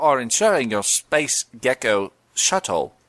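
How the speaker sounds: a hint of a Cockney gecko, slowing down; playing the insurance gecko, only lightly put on; lightly voiced Geico Gecko. Answering a mock interview as the Geico Gecko, lightly voiced. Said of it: "Geico Gecko".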